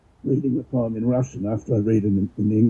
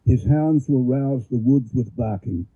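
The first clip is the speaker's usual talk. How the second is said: measured, declaiming verse reading; poem reading. Acted. Reads Pushkin poem aloud.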